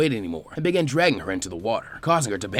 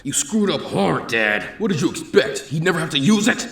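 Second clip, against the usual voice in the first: accusing retort; 5 semitones higher, 3 dB louder than usual. Acted. Child accusing Dad of screwing up. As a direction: throw the blame at him.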